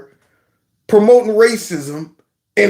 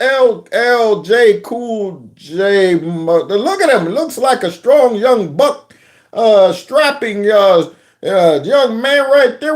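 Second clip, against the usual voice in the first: mock politician; 2 semitones higher than usual. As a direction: play a fumbling, over-impressed onlooker. Acts out politician admiring strong boy.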